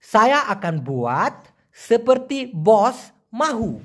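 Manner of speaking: slow, careful Malay sentence; slow example sentence. Shown as a demonstration. Teacher giving an example sentence in slow Malay. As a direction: read the Malay sentence slowly for learners. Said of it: "যদি আমি উদাহরণ দেই".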